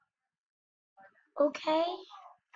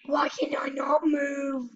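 trembling whisper. Real, not acted. Scared kid stuck in game.

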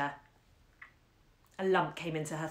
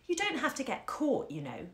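earnest reassurance; 7 semitones higher than usual. Acted. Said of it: "she reassured her mother earnestly".

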